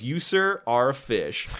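lightly imitated game catchphrase, lifted on "You, sir"; understated mock address to a caught fish; Arthur Morgan. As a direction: quote the cowboy's line, settling down on "fish". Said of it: "Arthur Morgan says is when he catches a fish".

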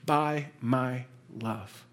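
normal talking voice

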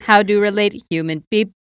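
stiff robotic monotone. Retold or imitated. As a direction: talk like a confused robot. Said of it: "Oh, good callback".

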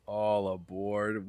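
slow, stretched conductor call; train conductor call. Pretend. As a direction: drag it out like a playful conductor. Joking about optimist train.

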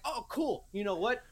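high-pitched mock cheer at the blinds; sarcastic exasperation. Man struggling with hotel blinds, high sarcastic exasperation. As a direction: talk back sharply to a stubborn object.

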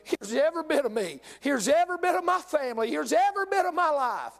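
rising, pleading altar prayer; earnest prayer. Acted. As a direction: pour yourself out to God. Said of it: "hit an altar this morning and say".

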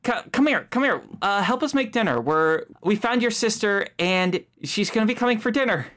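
high, cheery parent. Acted. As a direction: welcome your child home brightly. GM voices Storm's parent.

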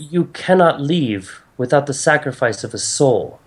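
lightly voiced goddess delivering a solemn decree; grave goddess. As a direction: break bad news with formal gravity. Game master voices goddess.

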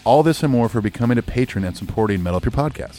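punchy, upbeat ad read; energetic scripted announcement; promo read. Real, not acted. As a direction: greet listeners like a podcast sponsor spot. Reads Patreon promo.

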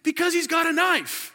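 high, stammering girlfriend imitation; mock girlfriend. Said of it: "And, and he's like".

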